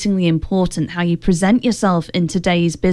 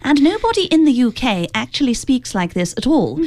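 imitation of old British broadcaster's RP; received pronunciation; 2 semitones higher than usual. Shown as a demonstration. Host demonstrating old UK broadcasting standard, in mock received pronunciation. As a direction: put on formal newsreader received pronunciation. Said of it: "what's called received pronunciation".

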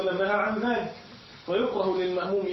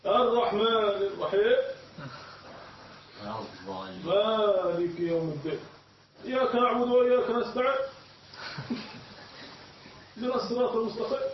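put-on Bedouin-accented recitation; 4 semitones higher than usual. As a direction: mimic Quran recitation in a Bedouin dialect. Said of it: "يقرؤون القرآن بلهجة بدوية". (تقليد تلاوة بلهجة بدوية)

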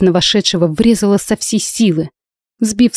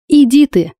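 breathed out in parting; 7 semitones higher, 3 dB louder than usual. A narrator's reading. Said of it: "выдохнула на прощание".

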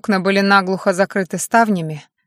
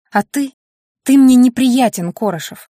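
raised, higher voice for the first words; sharp outburst; 4 semitones higher, 6 dB louder than usual. Acted. Heroine lashing out at Koroshev in the car, raised voice. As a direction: push him away with a louder snap.

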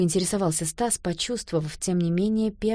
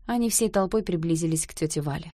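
usual speaking voice

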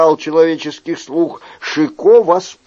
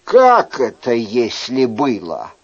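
indignant Chicot; 5 semitones higher than usual. Acted. Chicot complaining to the innkeeper about the flimsy house, indignant. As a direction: scold the host, fed up.

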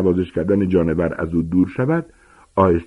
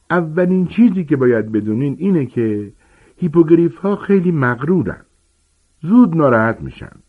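higher, hearty gamekeeper voice; booming, eager teacher giant; Hagrid explaining; 6 semitones higher than usual. Acted. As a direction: lecture the class like a big friendly giant.

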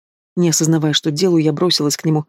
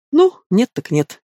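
slow, smirking and higher; ухмылка; 5 semitones higher, slower than usual. Acted. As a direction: drawl it out with a smirk. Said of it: "ухмыльнулся он". (медленно, с ухмылкой)

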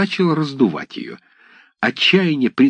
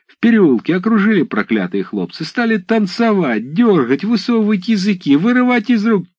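всё выше и выше, с возмущением; наперебой жаловаться на хлопцев; взволнованный рассказ; 12 semitones higher, 3 dB louder than usual. Acted. Десятские взволнованно оправдываются. (десятские взволнованно жалуются голове на хлопцев)

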